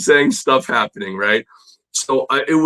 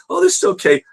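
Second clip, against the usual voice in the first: much higher, overly polite teacher; faster than usual. Retold or imitated. Teacher politely praising bad homework, high and sweet. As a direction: mimic the teacher gently sparing a weak student. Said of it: "But, but he was very polite".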